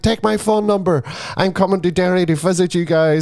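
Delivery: high, keen imitated chatter; eager invitation. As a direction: imitate a woman eagerly making plans. Retelling actress's eager invitation.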